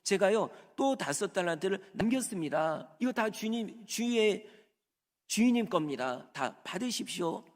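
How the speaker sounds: high, eager thanks; an excited servant gushing thanks. Acted. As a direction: gush with excitement to the master. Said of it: "신나서 얘기하는 거예요".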